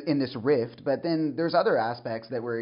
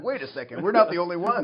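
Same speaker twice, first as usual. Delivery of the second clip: amused, laughing mock surprise; mock realization; 5 semitones higher than usual. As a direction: play a sudden realization through laughter. Acted realization, amid shared laughter.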